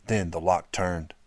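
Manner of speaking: plain reading voice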